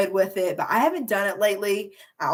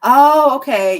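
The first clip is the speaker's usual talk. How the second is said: pleasant surprise; 4 semitones higher, 11 dB louder, slower than usual. Real, not acted. Reacting to a chat comment.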